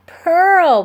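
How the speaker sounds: loud high yell of her name. A narrator's reading. Ben yelling to Pearl, loud alarmed shout. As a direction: shout it across the water. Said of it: "Ben yelled".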